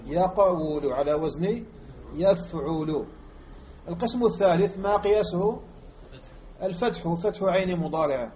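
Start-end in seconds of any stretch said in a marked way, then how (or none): 0.1-3.1 slow pattern demo. Shown as a demonstration. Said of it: "وإلا فأصله".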